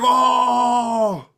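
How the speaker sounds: very high, loud joyful goblin cry; delighted goblin yelp. Acted. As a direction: squeal with glee as you're lifted. Goblin lifted onto shoulders.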